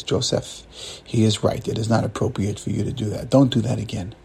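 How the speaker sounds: low, soft, firm admonishment; grave rabbi. Acted. Rabbi correcting Joseph, grave and low. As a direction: rebuke him quietly and soberly. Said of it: "the rabbi says".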